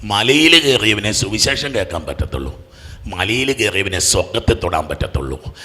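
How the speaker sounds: soft, low sermon voice; hushed reflection from the pulpit; hushed meditative preaching. Acted. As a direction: let it sink in, quiet and low.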